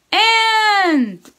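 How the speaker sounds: I called out loud and high; big voice. Shown as a demonstration. Teacher shouting sight words for kids to repeat. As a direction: shout the word out for the class. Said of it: "Big voice".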